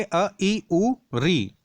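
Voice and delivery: short vowels अ, ई, उ, री, one by one. Shown as a demonstration. Teacher demonstrating short vowels to students, each said briefly. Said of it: "सभी छोटे मात्रा वाले हैं".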